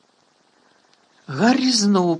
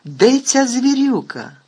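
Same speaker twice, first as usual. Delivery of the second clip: higher, louder, slow angry demand; angry shout; 9 semitones higher, 6 dB louder, slower than usual. A narrator's reading. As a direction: bellow for the missing beast. Committee member shouting for beast.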